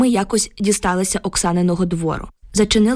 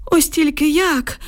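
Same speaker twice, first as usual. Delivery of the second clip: put-on slow, high old man's musing; thoughtful drawl; 8 semitones higher, slower than usual. A narrator's reading. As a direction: draw the words out, pondering. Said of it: "задумано протяг Юхим Іванович".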